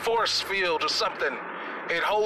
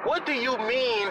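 indignant; 5 semitones higher, slower than usual. Acted. Indignant passenger answers the captain.

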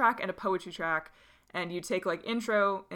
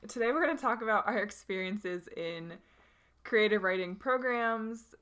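phone voice; 3 semitones higher than usual. Acted. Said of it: "your voice sounds so stupid".

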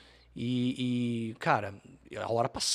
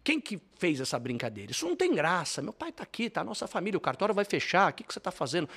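high, raised mock furious bride; angry bride scolding; 6 semitones higher than usual. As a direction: tell him off, won't let him speak. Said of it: "ela vem toda brava".

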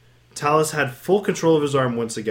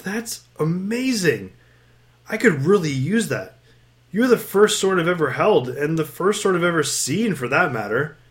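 admiring; 4 semitones higher than usual. Acted. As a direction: marvel at the sword. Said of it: "Talus said admiringly".

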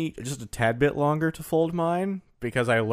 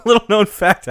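announcer voice; 7 semitones higher, 10 dB louder than usual. Pretend. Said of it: "radio-style fact intro".

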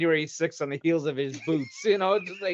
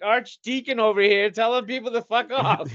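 laughing mock; 7 semitones higher, 4 dB louder than usual. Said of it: "I'm like".

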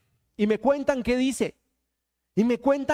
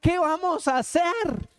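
higher, imploring cry for help; mock pleading; 3 semitones higher than usual. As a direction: act out someone at a loss, appealing to God. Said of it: "uno comienza a decir". (súplica fingida)

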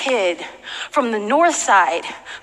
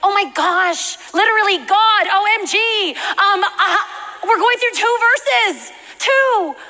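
higher-pitched, hammed-up overwhelm; mock exasperation; 5 semitones higher than usual. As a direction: play up your exasperated protest. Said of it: "I'm like".

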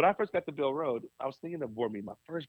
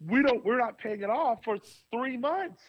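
frustrated; 6 semitones higher than usual. Retold or imitated. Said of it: "And I got so frustrated".

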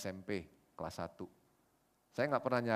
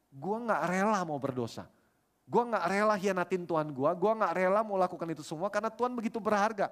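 impassioned vow; 6 semitones higher than usual. Retold or imitated. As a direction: build higher and stretch the words with conviction. Retold friend's tearful vow to God.

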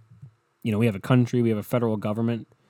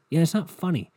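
higher, scolding BuzzFeed; mocking scold; 6 semitones higher than usual. Real, not acted. Podcaster scolding BuzzFeed for unfunny meme, higher and mocking. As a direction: tell BuzzFeed off with scorn.

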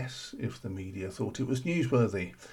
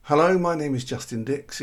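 bright American-accented greeting, louder; 4 semitones higher, 7 dB louder than usual. Shown as a demonstration. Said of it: "get one of those nice American voices instead".

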